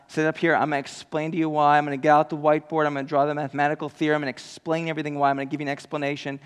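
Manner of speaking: fast, lightly voiced lecturing God; preacher joking about God explaining why; mock explainer. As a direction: rattle it off like a quick lesson. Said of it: "invite us up to sit on his lap".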